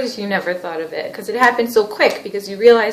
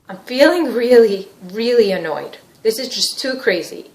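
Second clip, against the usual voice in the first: mildly exasperated, leaning on "really"; acted annoyance; 2 semitones higher, 5 dB louder than usual. Husband tells the therapist how he feels, mildly annoyed. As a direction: play a fed-up partner, lightly. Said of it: "you're feeling really annoyed".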